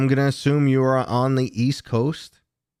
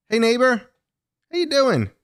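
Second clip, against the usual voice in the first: excited greeting; 4 dB louder than usual. Real, not acted. Greets viewer from Connecticut.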